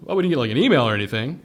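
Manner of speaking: fast, innocent-sounding excuse; playing dumb. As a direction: act clueless to the inspectors. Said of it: "Just playing dumb with them".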